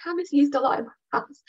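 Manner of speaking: high, bright-toned cheerful reassurance, a bit fast; upbeat reassuring. Shown as a demonstration. Owner cheering up a scared dog with upbeat chatter. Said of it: "being all upbeat and".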